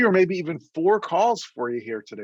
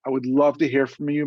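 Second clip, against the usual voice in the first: normal talking voice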